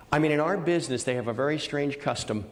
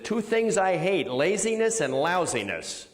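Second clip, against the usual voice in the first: imitating Bela; 5 semitones higher than usual. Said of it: "it was also Bela who said".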